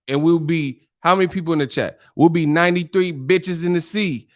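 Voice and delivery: Martin-style mock tirade; Martin rant. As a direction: ham up a comic threat, stretched out. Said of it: "like Martin said".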